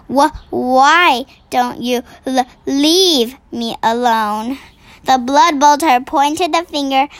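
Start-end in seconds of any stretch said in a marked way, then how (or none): 0.1-4.6 nervous stammer. Acted. The BFG lying to the giant, nervous stammer. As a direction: trip over the words in fear. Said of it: "he stammered".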